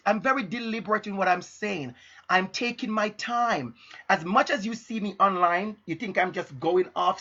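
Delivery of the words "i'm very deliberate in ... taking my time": measured, deliberate delivery; unhurried teacher pacing. Shown as a demonstration. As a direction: take your time over each phrase. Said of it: "if you listen to me now".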